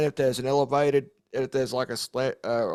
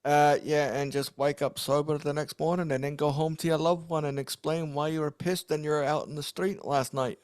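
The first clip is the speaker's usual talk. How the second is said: bad Irish accent. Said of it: "that bad Irish accent".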